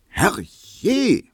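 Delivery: high, loud startled cry; shrill call. Acted. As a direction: call out through the door. Hedwig ruft durch die Tür. (lauter hoher Ausruf)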